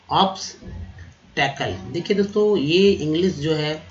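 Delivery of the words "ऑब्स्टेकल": ऑब्स्टेकल drawn out very slowly; slow demo. Shown as a demonstration. Teacher modelling ऑब्स्टेकल slowly for students. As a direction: stretch ऑब्स्टेकल carefully.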